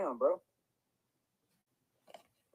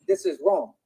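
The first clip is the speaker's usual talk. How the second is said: sudden high angry cry; outburst; 10 semitones higher than usual. Real, not acted. Streamer crying out to girlfriend, high and angry. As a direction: pitch shoots up in anger. Angry rant, pitch jumps.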